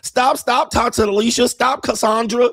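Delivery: bystanders begging her to stop; pleading to stop. Retold or imitated. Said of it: "the other people be like".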